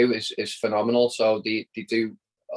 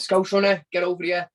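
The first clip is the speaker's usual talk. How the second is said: high-pitched imitation of calling someone over; retold shout; 7 semitones higher than usual. Carragher hailing the runner to join his live post, imitated shout. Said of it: "he just shouts me over".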